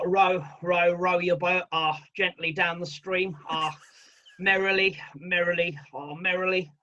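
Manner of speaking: lightly voiced hesitant footballer; halting, unsure recital with ums; understated Beckham-style fumbling through the song; David Beckham. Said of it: "David Beckham doing Row, Row".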